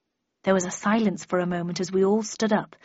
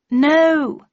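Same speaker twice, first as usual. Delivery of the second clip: laughed reply; 7 semitones higher, 8 dB louder than usual. A narrator's reading. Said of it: "he laughed".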